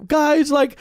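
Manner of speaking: high-pitched mock panic cry; retold freak-out. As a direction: plead with friends in acted-out panic. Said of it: "I'm freaking out".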